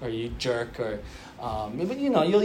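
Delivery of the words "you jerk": teasing friend. Retold or imitated. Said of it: "when you speak to your friend".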